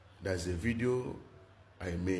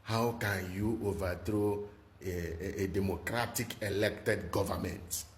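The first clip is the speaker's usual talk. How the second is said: mocking the West. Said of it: "they were ranting that".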